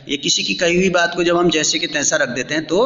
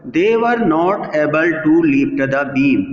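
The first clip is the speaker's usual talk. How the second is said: each English word drawn out slowly for the class; slow textbook reading; much slower than usual. Shown as a demonstration. Teacher reading the English sentence slowly to students. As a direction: read the sentence slowly, like dictation.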